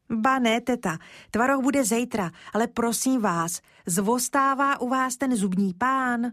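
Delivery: put-on a small boy asking politely and eagerly; polite little boy. Kája asks the shopkeeper.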